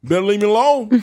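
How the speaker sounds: cocky put-on Shannon voice; Shannon Sharpe impression. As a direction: lean into the boastful old-timer voice. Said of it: "He's like".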